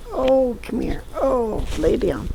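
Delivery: pet-talk call to a cat; coaxing the cat. Real, not acted. Calling the cat to her.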